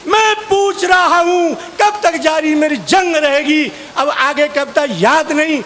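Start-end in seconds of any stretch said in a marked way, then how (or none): 0.1-3.7 slow, higher, declaimed heroic line; a hammed-up veer ras stage recital; heroic verse recitation. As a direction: recite like a fiery patriotic poet. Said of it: "वीर रस की कविता".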